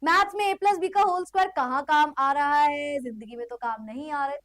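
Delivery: mock complaining student. Teacher imitates cool people asking maths' use, mock complaining. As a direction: mimic a too-cool kid griping about maths. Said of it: "वो कुछ भी बोलते हैं".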